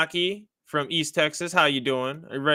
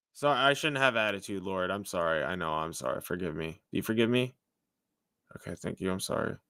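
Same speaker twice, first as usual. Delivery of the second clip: much softer, lower, contrite murmured sorry; backing down after mouthing off; sheepish apology; 9 semitones lower, 8 dB quieter, faster than usual. Acted. To the Lord after talking back, softer and lower, meekly sorry.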